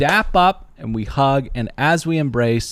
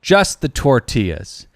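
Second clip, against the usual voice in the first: sheepish correction; 3 semitones higher, 4 dB louder, slower than usual. Retold or imitated. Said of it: "And I said".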